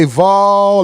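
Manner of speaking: VOL drawn out and dropping at the end; falling VOL. Shown as a demonstration. Host coaching the second syllable, VOL falling. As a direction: let VOL fall away. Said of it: "it gotta fall down".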